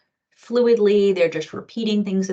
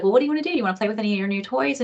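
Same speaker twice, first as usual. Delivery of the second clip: put-on bright, raised coaxing voice to a child; coaxing adult; 4 semitones higher, much faster than usual. Talking to the birthday girl, a coaxing voice. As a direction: coax her gently into play. Speaker coaxing four-year-old at party.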